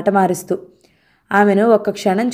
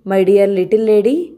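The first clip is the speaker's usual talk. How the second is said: teasing; much slower than usual. Acted. Husband gently chiding wife.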